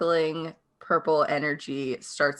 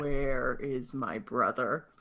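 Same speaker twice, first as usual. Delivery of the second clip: guttural bass; 3 semitones lower, slower than usual. Shown as a demonstration. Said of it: "the guttural bass line".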